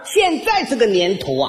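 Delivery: put-on high-pitched, gushing old mother-in-law; praising mother-in-law. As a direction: brag about your son-in-law to all the neighbours. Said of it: "一边夸我". (岳母尖声夸女婿)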